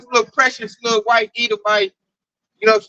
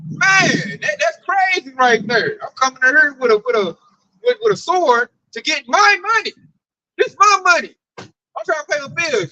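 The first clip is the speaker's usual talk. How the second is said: mock angry yell; 4 semitones higher than usual. Angry bank customer rant.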